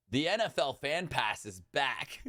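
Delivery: laughing through the N F L Fan Pass; half laugh, half wail at it; laughing disbelief. Real, not acted. Fan laughing at the NFL Fan Pass return, laughing disbelief. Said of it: "literally the next day".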